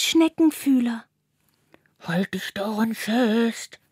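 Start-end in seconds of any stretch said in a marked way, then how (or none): 2.0-3.8 slow, kindly snail voice; muffled. A narrator's reading. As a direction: calmly reassure from above. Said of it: "ertönt Carlas gedämpfte Stimme". (gedämpft, langsam, beruhigend)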